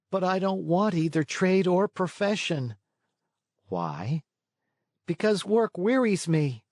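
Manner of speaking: put-on high, reluctant boy voice; sulky puppet boy. A narrator's reading. Puppet boy refusing to learn a trade, high sulky voice. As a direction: grumble like a lazy young puppet.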